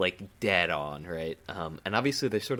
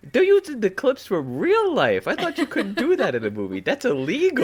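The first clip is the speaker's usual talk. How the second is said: laughing; 13 semitones higher, 8 dB louder than usual. Real, not acted. Mock outrage at real clips.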